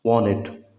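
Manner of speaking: "वांटेड" as "wanned"; American "वांटेड" with only the N; American silent T. Shown as a demonstration. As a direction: drop the T after N in "वांटेड". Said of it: "इस टी को silent कर देते हैं".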